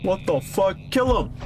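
high-pitched combat yell; alarmed shout. Real, not acted. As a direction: yell the order in sudden alarm. Calling out in game combat.

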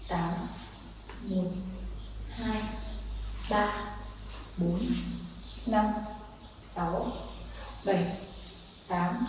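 steady rhythmic beat count; counting workout reps. Shown as a demonstration. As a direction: count each beat evenly in time. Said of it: "mình sẽ đếm nhịp".

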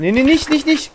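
high urgent yell; grenade warning yell. Real, not acted. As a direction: shout the warning, panicked. Grenade about to explode.

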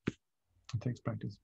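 gentle slowed-down echo; soft, slow repeat. Shown as a demonstration. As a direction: repeat it softly and slowly, almost to yourself.

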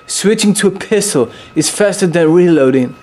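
amateur, hammed-up British accent. Gamer showing off for the viewers, mock British accent. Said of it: "How about my British accent? You like it?".

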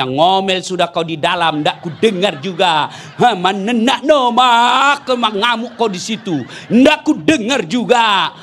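slow, laughing mock taunt; gloating taunt. Husband taunting his wife in the well, slow laughing gloat.

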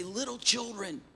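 a soft, tender call to the flock; lightly voiced old apostle, gentle and quiet; tender elder. Old John the Apostle calls his church, softly tender. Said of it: "And he would say".

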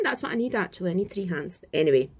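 while brushing teeth. Real, not acted. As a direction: mouth full of toothpaste. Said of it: "I'm brushing my teeth".

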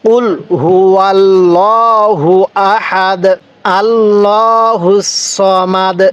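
আল্লাহুস সমাদ drawn out slowly; slow recitation. Shown as a demonstration. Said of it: "এবার এখান থেকে".

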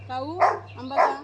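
drawn-out, slow gentle question; slow coaxing call. Real, not acted. Woman slowly coaxing the crow to take mango. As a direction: stretch each word to coax the bird.

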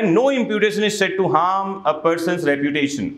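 slow, measured legal reading; slow statute reading. Acted. Teacher reading the statute to students slowly. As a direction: read the law out word by word.

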